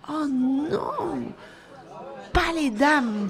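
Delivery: put-on high, pleading little girl's cry; a small girl pleading in dismay; pleading child. A narrator's reading. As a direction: beg him to say it isn't so. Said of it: "dit-elle d'un ton suppliant".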